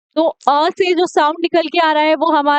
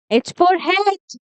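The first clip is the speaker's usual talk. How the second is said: slow letter demo; 3 semitones higher, much slower than usual. Shown as a demonstration. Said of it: "slow phonics demo".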